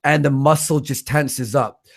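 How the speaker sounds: ordinary delivery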